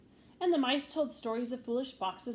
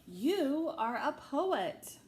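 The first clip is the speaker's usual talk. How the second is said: admiring; 4 semitones higher, 3 dB louder, much slower than usual. Acted. Mice admire Frederick.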